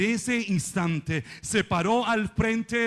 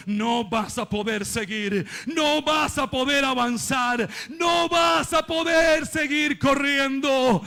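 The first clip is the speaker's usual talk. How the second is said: voice of defeat, building; 3 semitones higher, slower than usual. Acted. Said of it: "te está diciendo".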